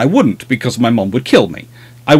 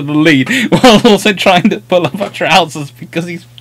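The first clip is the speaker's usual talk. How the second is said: real laughter bubbling through, raised pitch; laughing storytelling; 5 semitones higher than usual. Real, not acted. Telling the sister's trousers mishap, laughing throughout. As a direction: struggle to tell it through laughter.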